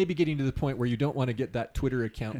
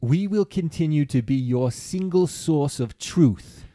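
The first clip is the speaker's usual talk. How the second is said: mocking quote; 3 semitones higher, 3 dB louder, slower than usual. Mocking the prime minister's line.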